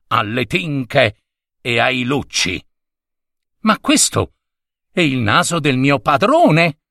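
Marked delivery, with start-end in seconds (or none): 3.6-6.8 horrified exclamation. Acted. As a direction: gasp it out in dismay. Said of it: "esclamò inorridita".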